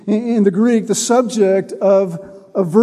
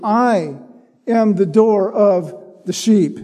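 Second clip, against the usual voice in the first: "I" held out, a short pause before "am"; stress on I; slower than usual. Shown as a demonstration. Preacher reading Jesus's door saying, stress on "I". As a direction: let "I" stand apart before the rest. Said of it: "The stress is on the "I".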